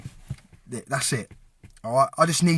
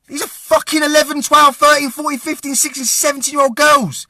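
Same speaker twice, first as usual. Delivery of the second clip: higher, rising outrage over the ages; outraged; 6 semitones higher, 3 dB louder than usual. Real, not acted. Outraged vlogger listing the girls' ages, voice raised. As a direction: let the anger break through on each age.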